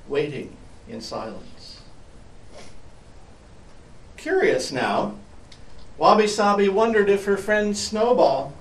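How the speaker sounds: put-on storyteller reading to children; story narration. A narrator's reading. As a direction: read it like a picture book. Reading a picture book aloud.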